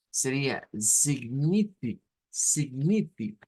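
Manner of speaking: signifi, drawn out to show the stress; teacher cutting a word at its stress; slow partial word. Shown as a demonstration. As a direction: slowly break off at signifi. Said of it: "sería la sílaba tónica".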